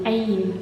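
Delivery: "ain" isolated, as in pain; English "ain" sound. Shown as a demonstration. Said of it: "that sound with an ain".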